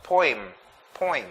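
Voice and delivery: poem with an OY sound; variant pronunciation. Shown as a demonstration. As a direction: say "poem" as "poym". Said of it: "others will pronounce it".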